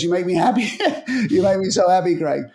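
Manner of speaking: a lightly retold delighted laugh through the words; happy laughing. Marion thanking Craig for the game plan, laughing with joy. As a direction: laugh as you thank him. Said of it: "he goes".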